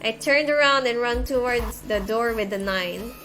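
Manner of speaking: measured read-aloud of a visual novel; story narration. A narrator's reading. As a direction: read the scene out evenly, without acting it up.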